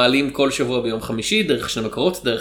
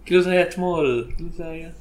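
fading echo; 2 semitones higher, 5 dB quieter, faster than usual. Pretend. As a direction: voice echoing away into silence.

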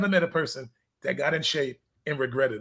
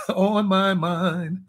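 laughing; much slower than usual. Real, not acted. Laughing after teasing.

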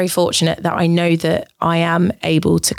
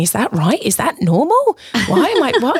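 rising, higher anxious questions; mock panic; 6 semitones higher than usual. Worrying mid-sex about the noise, rising mock panic. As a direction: act out the panic with rising pitch. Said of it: "started to fixate on the noise, going".

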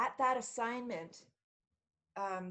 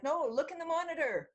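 urgent retold plea; 7 semitones higher, 6 dB louder than usual. Urging the security guard to look.

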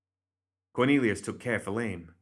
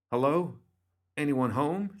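higher-pitched, mildly raised call; 7 semitones higher, 3 dB louder than usual. A narrator's reading. Bernadette at a stranger's door, calling out. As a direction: call into an empty house. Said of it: "she shouted".

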